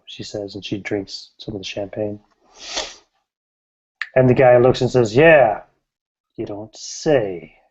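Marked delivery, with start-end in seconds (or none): 5.2-7.6 dry sarcasm. Acted. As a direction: let the sarcasm drag down, unimpressed. Jealous man, unimpressed again.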